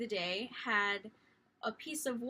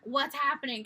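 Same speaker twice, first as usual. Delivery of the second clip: mom's claimed version; 4 semitones higher, 6 dB louder than usual. Retold or imitated. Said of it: "was like".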